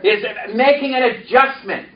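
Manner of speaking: calling out the line for echo; preacher's call line; congregation repeat-after-me. Shown as a demonstration.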